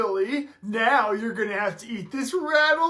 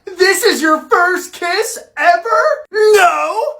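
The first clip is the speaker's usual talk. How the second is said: mocking shout; 7 semitones higher, 8 dB louder, slower than usual. Mocking and panicked denial.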